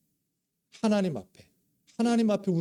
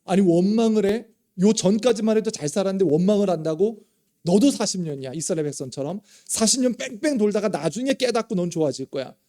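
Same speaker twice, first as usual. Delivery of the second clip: louder, indignant scolding voice; mock scolding God; 3 semitones higher, 5 dB louder than usual. Pastor imagines God scolding David for complaining. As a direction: scold like an offended master. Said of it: "욥도 마찬가지지요".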